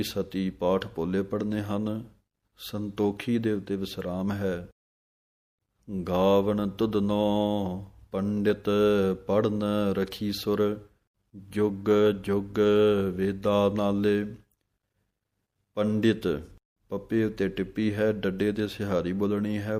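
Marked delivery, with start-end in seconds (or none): 6.1-14.2 slow, clear scripture reading with pauses; measured devotional santhya; slow Gurbani recitation. Shown as a demonstration. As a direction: recite line by line for students to follow. Teacher recites verse slowly.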